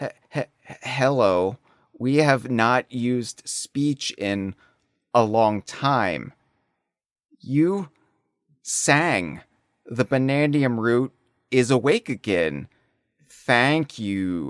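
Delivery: slow, halting, stammering alien voice. Voicing a fractone from the planet core: halted fractone speech. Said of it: "speaks in a very halted form of language".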